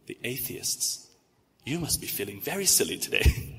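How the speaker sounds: dry British pity, lightly imitated and hushed at first; Mister Bean. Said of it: "I can't do a British accent well, but I try to".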